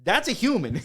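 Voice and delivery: cracking up while mocking; giggling insult about a friend wheezing; laughing roast. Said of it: "I was like".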